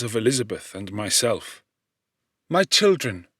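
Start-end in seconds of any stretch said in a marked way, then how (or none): 2.5-3.3 a lightly voiced dying mother, slightly raised and gentle. Dying mother calling to her children, lightly voiced. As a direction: speak as the mother on her deathbed, lifting the voice a little.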